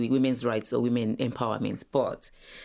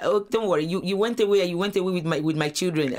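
mom's mock complaint; 5 semitones higher than usual. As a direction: imitate mom teasing that you left.

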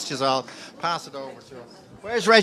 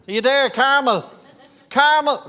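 calling out; 10 semitones higher, 7 dB louder than usual. Real, not acted. Calling out to woman in crowd.

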